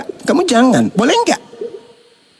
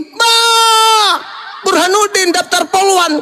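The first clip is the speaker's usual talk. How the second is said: shocked outburst; 7 semitones higher, slower than usual. Retold or imitated. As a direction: blurt out your disbelief. Retold phone call, outraged reply.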